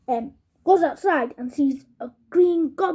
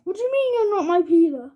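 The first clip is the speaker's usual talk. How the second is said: redone quote; 4 semitones higher, faster than usual. Shown as a demonstration. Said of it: "let's just redo this".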